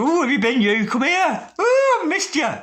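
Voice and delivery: high, loud squealing delight; gushing reunion. Retold or imitated. Reader voicing the lovers' reunion, loud squealing delight. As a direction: squeal it like you're thrilled to see them.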